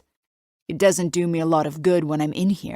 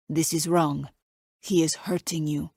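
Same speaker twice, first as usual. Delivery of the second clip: put-on light Italian accent. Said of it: "His Italian accent isn't even that thick".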